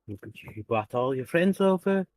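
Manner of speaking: put-on light Boris Johnson-style British accent; a playful hint of Boris Johnson's British accent; Boris Johnson impression. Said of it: "Boris Johnson".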